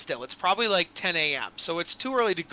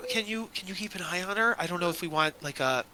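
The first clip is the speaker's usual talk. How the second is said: slightly hushed, hesitant request; an understated, halting aside to the group; whispered aside; 2 semitones lower, 6 dB quieter than usual. Acted. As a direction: confide it under your voice, lightly. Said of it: "he would whisper to the group".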